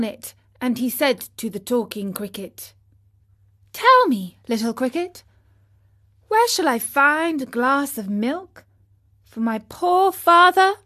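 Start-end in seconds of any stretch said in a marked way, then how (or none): 3.7-10.7 urgent puppet voice. Acted. Pinocchio asks the cricket.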